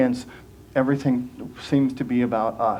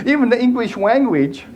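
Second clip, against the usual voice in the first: higher, said through a giggle; real laughter in the words; laughing; 7 semitones higher, 3 dB louder than usual. Real, not acted. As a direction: laugh while correcting yourself. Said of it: "I'm channeling Bugs Bunny".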